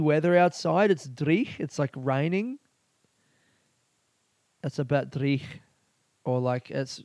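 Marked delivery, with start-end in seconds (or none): 4.6-5.4 imitated Scottish pub talk; Scottish accent attempt. Podcaster demonstrating local slang in a put-on Scottish accent. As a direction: try it in amateur Scottish.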